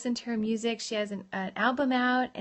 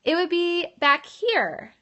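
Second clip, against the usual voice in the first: louder, higher, hollow placement at the back; back-of-head voice; 4 semitones higher, 5 dB louder than usual. Shown as a demonstration. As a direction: talk from the back of your head. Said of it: "talking in the back of my head".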